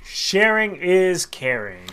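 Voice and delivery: slow singsong motto. Pretend. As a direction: sing out the motto slowly. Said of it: "Because why, Tony?".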